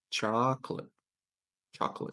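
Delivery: "Chocolate" as two syllables, CHAHK-lit; correct pronunciation demo. Shown as a demonstration. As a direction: model "Chocolate" with a stressed first syllable. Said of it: "that's a very good one".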